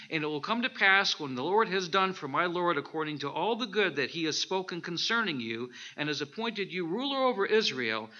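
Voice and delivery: loud, declaiming Bible reading; scripture reading. Acted. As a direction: proclaim the verses to the congregation. Reading scripture aloud to congregation.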